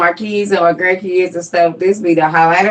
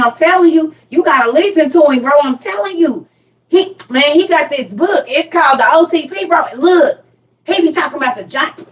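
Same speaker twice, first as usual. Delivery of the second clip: excited friend; 4 semitones higher than usual. Retold or imitated. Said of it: "the homeboys".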